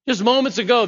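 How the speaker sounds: emphatic incredulous "Just moments ago"; stressed repeat. Real, not acted. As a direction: lean hard on "moments". Preacher stresses contrast.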